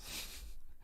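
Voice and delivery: short, soft voiceless gasp; horrified gasp. Retold or imitated. Animator miming the character's look of horror, quiet gasp.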